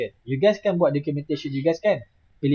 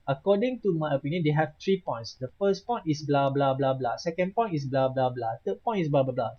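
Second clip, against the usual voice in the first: mock dictating; 3 semitones lower, 4 dB quieter than usual. Teacher dictating a sample exam answer, mock dictating. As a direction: pretend dictation, lower and softer on the blahs.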